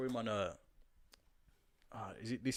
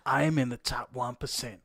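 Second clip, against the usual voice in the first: laughing; 8 dB louder, slower than usual. Real, not acted. Laughing while reading.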